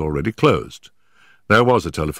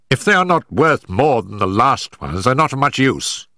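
malevolent scowl; 8 semitones higher than usual. Acted. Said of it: "said Amberley with a malevolent scowl".

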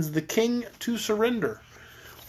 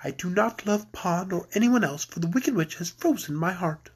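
cool, restrained princess; quietly cold refusal, held level; icy but understated; frigid; 4 dB quieter than usual. Acted. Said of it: "said Gloria frigidly".

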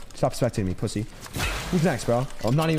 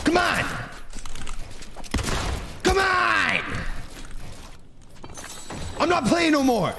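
mock yelling; 11 semitones higher than usual. Taunting players in game.

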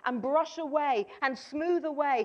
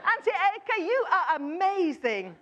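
imitating child; 4 semitones higher, 4 dB louder than usual. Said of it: "I did have to prompt him".

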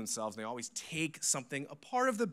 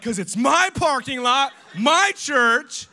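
very high, very loud mock outrage; indignant yell; 18 dB louder, slower than usual. Pastor claiming his church to skateboarders, over-the-top angry yell.

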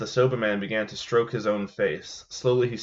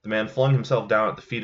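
measured storyteller reading a ghost tale; story narration. A narrator's reading. Host reading a Japanese ghost story to listeners, steady storytelling voice. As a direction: read it like a spooky old legend.

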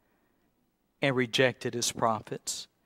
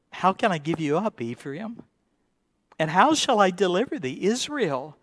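desperate; 4 semitones higher than usual. Acted. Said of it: "God's desperation".

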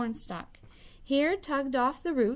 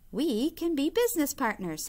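cheerful, high, coaxing trickster; bright wheedling Hare; 5 semitones higher, 3 dB louder than usual. Acted. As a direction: sweet-talk him awake. Hare pitching deal.

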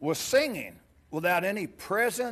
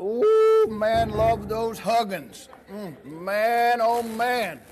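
delighted hug; 4 semitones higher, 6 dB louder, slower than usual. Real, not acted. Getting a big hug from child.

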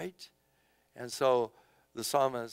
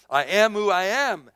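God answering; 6 semitones higher, 8 dB louder than usual. Retold or imitated. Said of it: "And he says".

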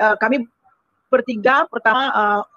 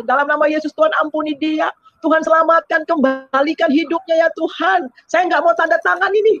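tearful pleading; 5 semitones higher than usual. Retold or imitated. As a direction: retell a desperate prayer, voice lifted. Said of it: "saya nangis, Tuhan".

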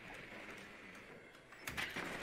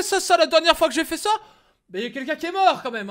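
excited; 7 semitones higher, 5 dB louder, faster than usual. Real, not acted. Nervous excited streamer before playing.

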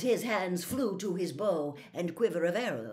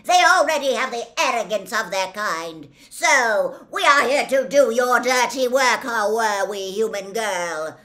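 very loud, raised, indignant centaur tirade; furious bellow; 7 semitones higher, 15 dB louder than usual. A narrator's reading. Gray centaur rails at human arrogance, bellowing furiously. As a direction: thunder it out in outrage. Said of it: "and bellowed".

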